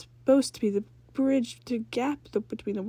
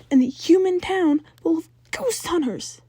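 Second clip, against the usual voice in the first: hushed warning; 8 semitones higher, 9 dB louder, slower than usual. Acted.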